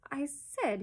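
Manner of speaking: lifted, distinct "I said". A narrator's reading. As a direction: say "I said" pointedly, as a repeat. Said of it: "he repeated more distinctly".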